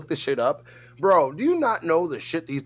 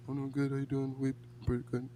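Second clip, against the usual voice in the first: much softer, laid-back mumble; imitating laid-back friend; 2 semitones lower, 12 dB quieter, faster than usual. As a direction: mimic a mellow gamer barely bothering to speak. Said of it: "He literally talks like that".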